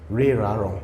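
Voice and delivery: Re, ra, ron sounded out one by one; three ending sounds. Shown as a demonstration. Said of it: "Always, always like that".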